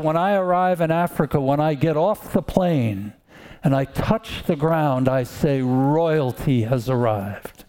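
lightly imitated evangelist, drawing out the last declaration; a hint of a very direct evangelist, slowing to proclaim; evangelist's manner of talking. Preacher quoting an evangelist on arriving in Africa, lightly imitated. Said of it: "this is how he talked".

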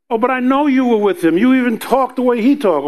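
insistent accuser. Retold or imitated. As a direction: catch him out, eager and quick.

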